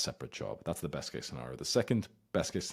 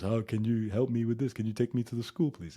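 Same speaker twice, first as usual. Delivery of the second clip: put-on higher, louder needy child voice; babyish mock plea; 5 semitones higher, 4 dB louder than usual. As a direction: whine like a little kid. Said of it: "instead of just".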